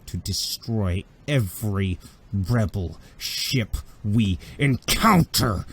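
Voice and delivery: slow, wrathful command building on the last word; seething fury. Acted. Villain ordering his officers to destroy the rebel fleet, seething fury. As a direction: spit out each word in mounting anger. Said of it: "he's so mad that spittle's coming off".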